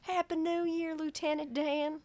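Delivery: high, thin put-on voice; high-pitched movie-character impression; film quote impression.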